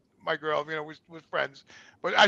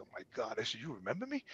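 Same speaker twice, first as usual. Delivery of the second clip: embarrassed hush; 8 semitones lower, 17 dB quieter, faster than usual. Retold or imitated. His embarrassed quiet reply.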